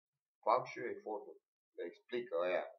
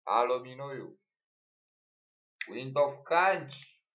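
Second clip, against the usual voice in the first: mock caller shout; 3 semitones higher, 7 dB louder than usual.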